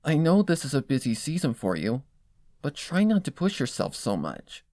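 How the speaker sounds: admonishing. Acted. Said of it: "I say in an admonishing tone".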